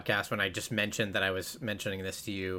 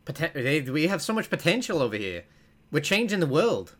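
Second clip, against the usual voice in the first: put-on higher-pitched, rough stab at New Zealand accent; attempted New Zealand accent; 4 semitones higher than usual. Podcaster nearly getting the commercial's accent, higher attempted New Zealand accent. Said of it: "Oh, I was getting it".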